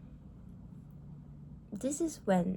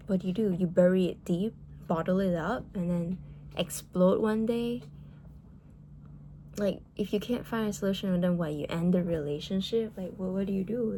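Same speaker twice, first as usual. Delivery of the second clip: louder, heated rant; getting heated; 4 dB louder than usual. Real, not acted. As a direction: let real frustration push the volume up. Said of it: "yeah, I'm getting a bit heated".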